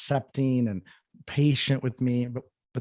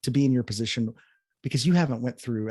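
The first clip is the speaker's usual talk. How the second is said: offended; 3 semitones higher than usual. Retold or imitated. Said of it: "I got really upset and I was offended".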